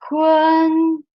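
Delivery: Hun held high and level; level first-tone Hun. Shown as a demonstration. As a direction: sing Hun on a flat high pitch. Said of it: "The first one is".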